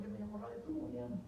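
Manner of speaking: the preacher, playing himself, quietly giving his name; hushed reply. Secret believers meeting quietly.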